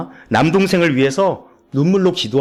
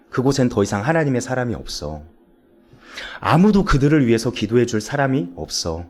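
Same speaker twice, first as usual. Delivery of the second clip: lower, measured voice with long pauses; imitated gentle counseling; 3 semitones lower than usual. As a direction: voice a pastor consoling and gently persuading. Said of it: "목사님께서 정말 귀한 상담을 해주셨더라고요".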